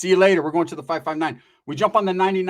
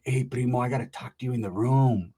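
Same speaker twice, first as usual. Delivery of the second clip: softer, lower imitation of a woman; imitating cousin's talk; 4 semitones lower, 4 dB quieter than usual. Cousin asking him into the room, lightly imitated. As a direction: lightly put on her way of talking. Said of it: "that's how she talks".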